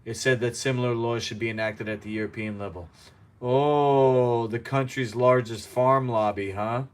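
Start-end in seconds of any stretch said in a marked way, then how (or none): 3.4-6.8 sarcastic. Real, not acted. Mocks the lobby just read out.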